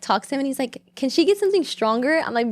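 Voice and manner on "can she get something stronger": higher-pitched timid little brother; little kid. Retold or imitated. Little brother asking nurse for help, lightly voiced kid. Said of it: "like a little kid".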